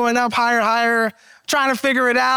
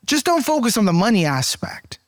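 whisper. Real, not acted. Aside to congregation.

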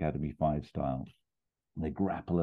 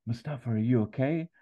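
higher-pitched worried mum on the phone; 7 semitones higher than usual. Acted. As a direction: ask as a wife checking on her husband. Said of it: "the mum says".

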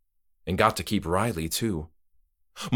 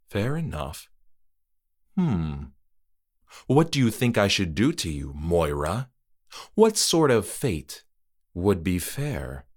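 musing host. Acted. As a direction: toy with her. Trick-or-treater muses.

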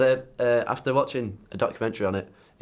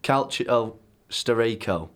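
Italian accent; slower than usual. Real, not acted. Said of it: "In full Italian accent there".

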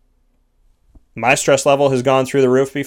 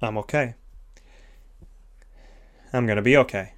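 gentle self-talk; 3 semitones lower, 6 dB quieter than usual. Shown as a demonstration. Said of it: "say something positive to yourself".

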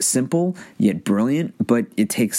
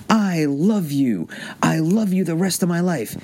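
spontaneous declaration; 9 semitones higher than usual. Shown as a demonstration. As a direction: let it fall out on the breath, higher and unplanned. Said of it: "I'm gonna say it like this".

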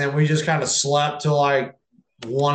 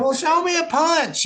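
imitating Abdullah; 12 semitones higher than usual. Imitating Abdullah asking for punch.

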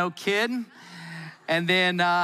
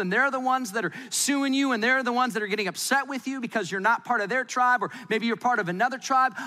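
matter-of-fact James; 6 semitones higher than usual. Pretend. James voiced, higher and matter-of-fact.

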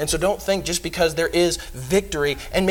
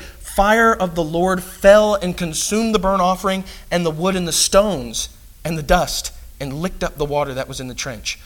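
scripture reading. Acted. Preacher reading the fire from heaven passage to listeners, proclaiming. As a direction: read the miracle out with weight.

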